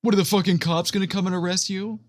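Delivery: ordinary talk, nothing marked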